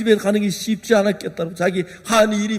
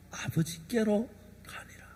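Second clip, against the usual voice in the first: whispered scripture; 17 dB quieter than usual. Acted. Preacher whispering the verse about the son going home. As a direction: breathe the words like a secret.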